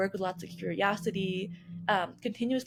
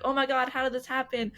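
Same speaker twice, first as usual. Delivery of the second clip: higher-pitched, mildly panicked group quote; retold freak-out; 7 semitones higher, 4 dB louder than usual. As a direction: imitate a community freaking out, half in earnest. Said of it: "we all freak out again".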